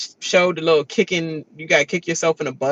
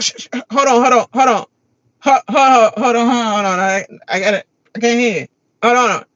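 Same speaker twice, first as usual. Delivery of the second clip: louder, urgent shushing; shushing her kids; 4 semitones higher, 6 dB louder, faster than usual. Retold or imitated. Mom shushing kids in the car, urgent and loud. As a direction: hush them fast and impatiently.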